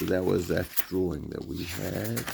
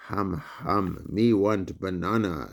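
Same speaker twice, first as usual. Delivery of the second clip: lightly voiced dopey gorilla, slow grunting; much slower than usual. Biscuits clowning as gorilla for his roommates, mild ape voice. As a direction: play a silly ape asking for food. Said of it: "still being a gorilla".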